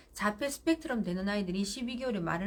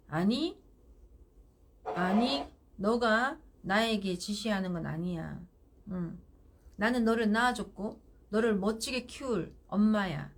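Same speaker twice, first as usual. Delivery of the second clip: firm calm mother. Shown as a demonstration. Mother calmly asserting authority to her child. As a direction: set the boundary calmly, like a parent. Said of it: "라고 정확하게 말하세요".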